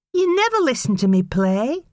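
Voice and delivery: put-on high, pleading boy's voice; young boy pleading. A narrator's reading. Young son pleading with his mother, high boy's voice. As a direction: beg like a small boy. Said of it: "Casey reminded her".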